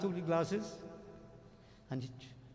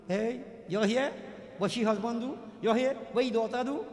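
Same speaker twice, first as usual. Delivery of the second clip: raised, nosy mock questions; gossipy chatter; 4 semitones higher than usual. Two ladies gossiping on the way to temple, mock chattering. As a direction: mimic gossips prying, each question lifting at the end. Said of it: "Pak, pak, pak".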